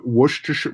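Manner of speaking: halting WORCESTERSHIRE, said as "wosh-ta-sher"; struggling pronunciation. Real, not acted. American failing to copy British friend, struggling pronunciation. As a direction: stumble through WORCESTERSHIRE with a slurred "sh" in the middle. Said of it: "I can never pronounce that word".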